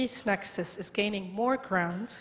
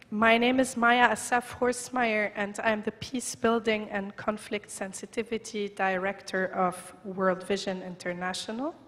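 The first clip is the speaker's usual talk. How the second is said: squeaky voice. Real, not acted. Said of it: "Please excuse my squeaky voice".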